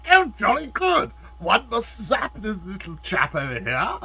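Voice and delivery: high, loud British robot voice. Retold or imitated. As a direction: put on a jolly British accent. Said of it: "Very British".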